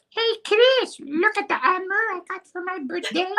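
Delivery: put-on very high, fast squeaky child voice in a thick Jean Chrétien accent; thicker Jean Chrétien accent. Boy brags to cousin Chris in an exaggerated Jean Chrétien accent. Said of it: "it probably sounded more like".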